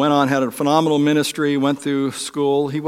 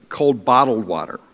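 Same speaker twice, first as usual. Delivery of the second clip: a mildly short, clipped-off request, lightly retold; curt, unkind; 2 semitones lower than usual. Husband snaps at his wife about water, mildly curt. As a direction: toss it off a bit impatiently, understated. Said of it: "I said it in such a way".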